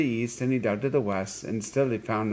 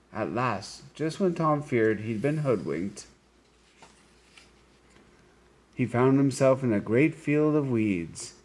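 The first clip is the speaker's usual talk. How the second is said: story narration. A narrator's reading. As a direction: read it like a tale to a class. Reads story to children.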